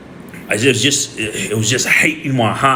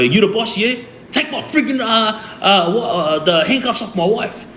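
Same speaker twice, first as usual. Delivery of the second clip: retold yell; 8 semitones higher than usual. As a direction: imitate yelling an angry demand at the boss. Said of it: "I yelled at him".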